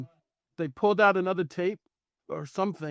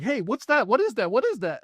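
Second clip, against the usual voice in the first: higher-pitched retold alarm, urgent questions; excited calling out; 6 semitones higher than usual. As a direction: act out urgently pointing out something strange. Retells his startled call on plane.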